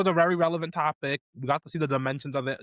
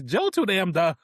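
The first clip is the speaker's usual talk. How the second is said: Heavenly voice; 3 semitones higher, slower than usual. Retold or imitated. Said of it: "in my Heavenly voice".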